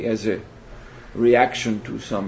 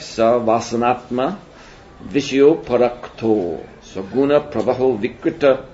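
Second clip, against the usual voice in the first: verse recitation. Acted.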